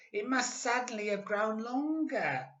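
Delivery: put-on very high, squeaky old woman; Missus Twit. A narrator's reading. Old wife puzzled by her stick, high and squeaky. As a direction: squeak it out like a startled old hag. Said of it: "Missus Twit said".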